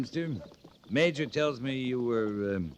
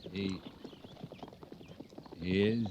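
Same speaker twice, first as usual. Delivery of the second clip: startled question; 3 semitones lower, 9 dB quieter than usual. Acted. Captain hears his trooper built a still, startled. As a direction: pitch leaps in disbelief.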